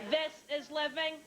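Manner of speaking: lightly mocking spokeswoman impression; slow, hammed-up advert delivery; Lynn Redgrave. Comic mimics a diet advert, lightly mocking impression. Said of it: "Remember Lynn Redgrave for Weight Watchers?".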